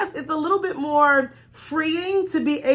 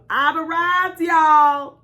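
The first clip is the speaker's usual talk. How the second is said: mock cocky boast, louder at the end; smug pride; 4 semitones higher, 4 dB louder, much slower than usual. Mocking the prideful dieter at the top, louder smug boast. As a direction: play the proud one who thinks she made it. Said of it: "ever have the attitude of".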